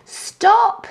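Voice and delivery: very high stop; mock alarmed cry. A narrator's reading. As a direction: shriek in pretend alarm. Night Monkey shouts stop.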